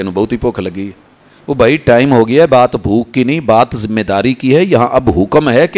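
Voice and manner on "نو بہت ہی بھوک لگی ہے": mock sheepish excuse. Mocks people delaying iftar.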